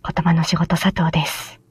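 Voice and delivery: whispering; hushed whisper from the closet; hiding whisper. Real, not acted. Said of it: "小声で配信しています".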